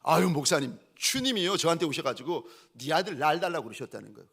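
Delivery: loud, agitated retelling; huffing complaint. Retold or imitated. Upset mother reporting to her pastor, huffing. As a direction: imitate an upset woman pouring it out. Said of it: "씩씩거리면서 저한테 그러시는 거예요".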